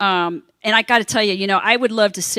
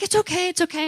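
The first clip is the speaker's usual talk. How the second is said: reassuring pilot; 7 semitones higher, 6 dB quieter than usual. Retold or imitated. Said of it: "he's like".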